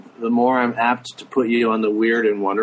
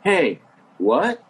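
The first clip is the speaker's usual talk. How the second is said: higher, astonished on-air announcer; surprised radio DJ; 6 semitones higher than usual. Acted. Radio DJ greeting a fake walk-on guest, put-on surprise. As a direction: play up the surprise of a big guest. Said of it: "then the D J would go".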